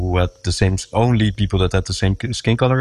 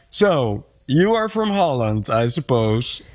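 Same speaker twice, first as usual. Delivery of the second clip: lightly voiced cab driver, higher pitch; imitating cab driver; 3 semitones higher than usual. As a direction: quote the cabbie in a slightly put-on, higher voice. Retells cab driver's remark to him.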